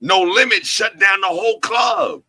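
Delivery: shouted, punching Limit; hype shout. Real, not acted. Hyping the crowd about the club, shouting.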